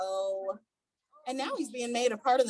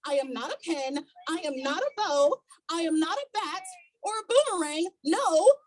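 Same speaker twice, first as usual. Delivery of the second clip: protesting Stickman. Acted.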